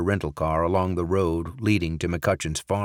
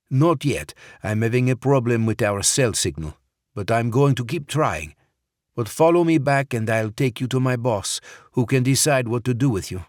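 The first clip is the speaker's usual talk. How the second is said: the guard's voice, higher and louder, stalling politely; wary guard, raised and firm; farm guard voiced; 5 semitones higher, 4 dB louder than usual. A narrator's reading. Guard tells Barrett to follow him, higher and louder.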